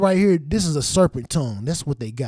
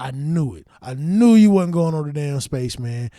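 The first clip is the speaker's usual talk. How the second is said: louder gloating; smug told-you-so; 6 dB louder than usual. Retold or imitated. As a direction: gloat a little. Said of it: "But I was like".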